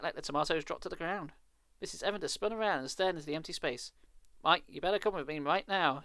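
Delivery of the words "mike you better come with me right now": insisting. Acted. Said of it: "she insisted".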